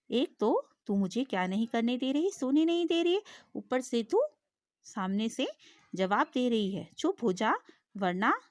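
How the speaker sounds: a lion losing patience, mildly hammed; angrier lion. Teacher voicing lion, angrier at the fly. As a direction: scold the cheeky fly with rising anger. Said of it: "शेर का गुस्सा बढ़ गया".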